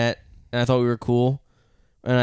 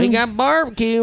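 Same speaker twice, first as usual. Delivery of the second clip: put-on Texan accent; 9 semitones higher than usual. Texas club voiced.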